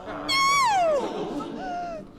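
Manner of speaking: high-pitched imperious outburst; loud royal objection; outraged cry. Acted. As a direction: cut in with a high, commanding cry. Queen overrules the jury's verdict.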